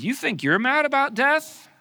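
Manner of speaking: loud, high, impassioned outcry; indignant God. Acted. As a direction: preach God's outrage at full voice. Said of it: "He says".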